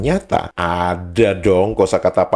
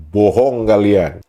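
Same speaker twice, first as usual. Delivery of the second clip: emphatic accusation; 4 dB louder, slower than usual. Real, not acted. Accuses the readers of lying.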